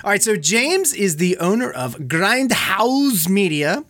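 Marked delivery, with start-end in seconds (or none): 2.5-3.8 "Grindhouse" drawn out slowly, German-style; slow, relished German-flavoured "Grindhouse"; mock German. Shown as a demonstration. Host introducing guest's company, "Grindhouse" slowly said German-style. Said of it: "I gotta just say it like that".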